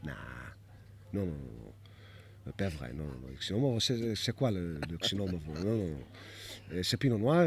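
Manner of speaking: low, quiet French mentor; French accent. Retold or imitated. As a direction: insist in soft French. French mentor denying the grape.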